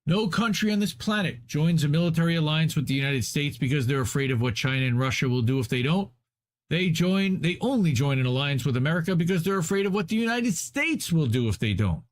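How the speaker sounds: declaimed read-aloud, pitch climbing towards the end; emphatic article reading. A narrator's reading. Reader arguing why countries join America's alliance, emphatic article reading. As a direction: drive the written argument home.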